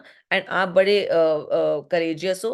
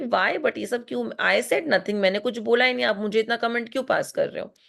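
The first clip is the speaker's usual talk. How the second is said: raised, whiny protest; protesting Trinculo; 4 semitones higher than usual. Retold or imitated. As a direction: plead innocence, pitched up. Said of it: "Trinculo बोलता है कि". (ऊँची आवाज़ में शिकायत करता ट्रिंकुलो)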